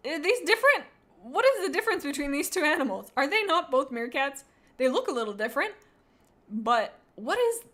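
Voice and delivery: high, loud disbelief; baffled by the duplicate; incredulous. Real, not acted. Confused by two meerkats.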